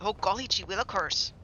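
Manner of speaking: lightly done fake Canadian accent; a hint of a Canadian lilt on golly gee; playful, barely-there Canadian accent. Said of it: "a fake Canadian accent".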